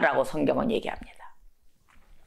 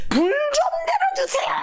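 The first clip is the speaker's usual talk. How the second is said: crying out loudly. Shown as a demonstration. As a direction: demonstrate a full-throated plea, voice soaring. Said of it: "큰 소리로 해, 큰 소리로".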